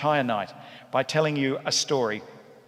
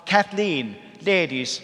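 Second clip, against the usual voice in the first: Mary's voice; 4 semitones higher, 6 dB louder than usual. Retold or imitated. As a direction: lay on the admiration like an old Irish matriarch. Mary introduces her cousin.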